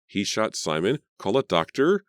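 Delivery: high, loud scream for help; panicked call, high and loud. Acted. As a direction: shriek for a doctor in panic. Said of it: "Carrie screamed".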